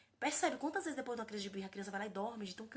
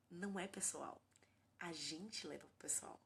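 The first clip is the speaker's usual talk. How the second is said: hushed confession, much softer; whispered aside; 4 semitones lower, 8 dB quieter, slower than usual. Real, not acted. Mother confiding to other parents, whispered. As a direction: whisper it like admitting a secret.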